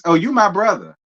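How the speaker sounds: ordinary talk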